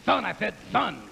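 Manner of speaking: lisping cartoon duck as Pacino. Comic joking about Pacino's sequel, lisping duck voice. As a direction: lisp it like Daffy in Pacino's voice. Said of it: "Gonna do Daffy".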